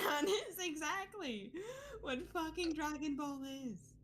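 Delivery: laughing. Real, not acted. Cracking up at Dragon Ball.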